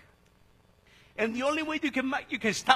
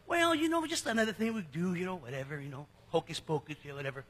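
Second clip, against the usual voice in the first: flippant; 4 semitones lower, faster than usual. Retold or imitated. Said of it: "some people flippantly take communion thinking".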